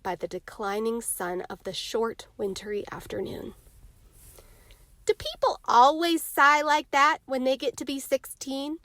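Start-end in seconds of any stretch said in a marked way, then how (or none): 5.0-8.8 curious. A narrator's reading. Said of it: "asked Jimmy curiously".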